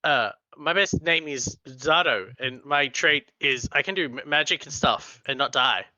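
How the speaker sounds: put-on nerdy New York accent greeting; awkward nerd in a New York accent. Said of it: "in my New York accent".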